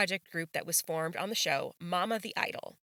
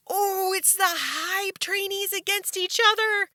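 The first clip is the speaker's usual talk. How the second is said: worked up; 11 semitones higher than usual. Real, not acted. Favourite trainees pitted against each other.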